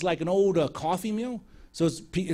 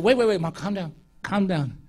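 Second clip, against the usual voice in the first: calming someone; 4 dB louder than usual. Retold or imitated. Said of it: "Mama about to get violent".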